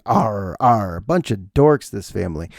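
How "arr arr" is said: pirate growl. Acted. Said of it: "we all entering saying".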